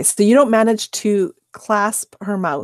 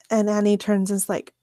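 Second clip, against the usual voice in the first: ordinary talk, nothing marked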